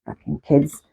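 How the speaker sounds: whispered aside; muttered exasperation. Real, not acted. Exasperated aside about children.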